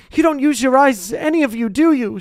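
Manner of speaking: high, loud sharp reproach; snapped. Acted. Hermione scolding Ron and Harry, sharply. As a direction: scold the boys impatiently. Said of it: "she snapped".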